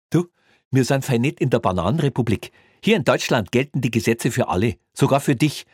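smug cop lecturing a colleague; pompous Bavarian cop. Acted.

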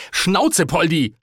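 high, irritated shout; exasperated yell. A narrator's reading. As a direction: cut the aunt off sharply. Nephew shuts interrupting aunt up.

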